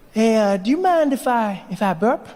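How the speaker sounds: high, hesitant asking; voice of the body. Retold or imitated. Body asking permission to burp, high hesitant voice. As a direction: ask permission a little too innocently. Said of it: "my body was like".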